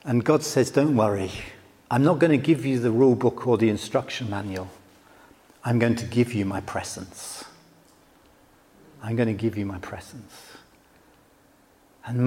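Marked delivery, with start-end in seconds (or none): 0.7-10.3 God's voice. Acted. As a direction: speak as God, deep and steady. God answers Moses.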